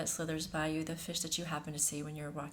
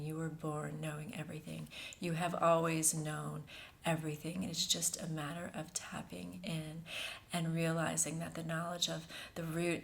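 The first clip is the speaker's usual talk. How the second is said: guided meditation. Acted. Host channels a feminine energy for listeners, meditative and hushed. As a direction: lead them gently into the breath, unhurried.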